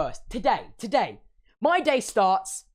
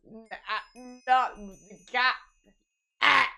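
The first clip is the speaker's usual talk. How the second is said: tongue-tied mumble. Retold or imitated. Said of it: "All that comes out my mouth is".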